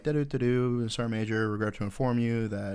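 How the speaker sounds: jingle then a deadpan notice rising to a high loud squeal; mock email voice. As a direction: read out the bad news, climbing to a shriek at the end. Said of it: "and it's like".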